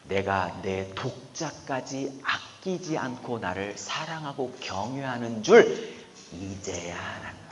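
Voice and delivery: slow, deliberately spoken voice of God; moved God. Acted. God finally recognizing Abraham's devotion, slow and moved. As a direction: let God savor the discovery. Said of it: "그러면서 이렇게 말해요".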